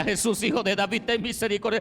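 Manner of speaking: very loud, high plea for mercy; crying out. Acted. Blind man persists despite the crowd, crying out loudly. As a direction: cry out harder, pitch climbing. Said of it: "él comenzó a gritar y a dar voces".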